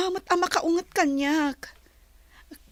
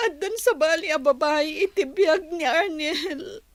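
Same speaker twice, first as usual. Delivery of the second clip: speaking through tears; about to cry; a touch of crying; tearful. Acted. Tells sister of breakup.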